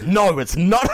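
laughing through the line; can barely get it out laughing. Retold or imitated. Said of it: "And my mum goes".

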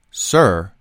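pointed, controlled politeness; passive-aggressive. Retold or imitated. Passenger to the man behind him, passive-aggressive warning. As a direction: set "Sir" apart, then a measured demand. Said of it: "the best passive-aggressive insult".

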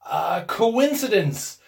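slow, loud, hesitant protest; stammered. A narrator's reading. Old man answers insistent wife, hesitant stammer. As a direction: falter your way into an excuse. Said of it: "stammered the old man".

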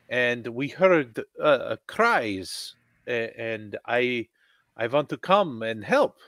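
a doctor speaking broken English; a stranded doctor pleading to help; stranded doctor character. Acted.

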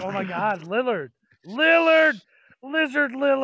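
high, loud gushing over Lillard; mock fangirl freak-out. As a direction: scream the name like a starstruck fan. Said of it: "He's like".

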